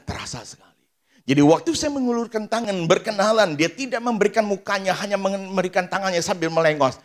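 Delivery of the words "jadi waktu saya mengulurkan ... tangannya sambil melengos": high, loud preaching cry; full-force preaching. Acted. Preacher crying out to the congregation, full-force preaching. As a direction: preach it out, pushing hard.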